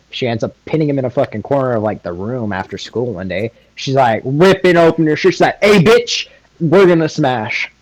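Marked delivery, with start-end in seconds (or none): 5.6-7.7 pushy Hinata. Acted. Hinata voiced aggressively.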